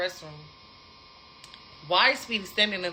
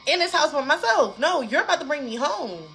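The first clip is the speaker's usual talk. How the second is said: raised, insistent pitch; indignant protest; 5 semitones higher, 4 dB louder than usual. Retold or imitated. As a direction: re-enact refusing to be left behind. Indignant inner protest acted out.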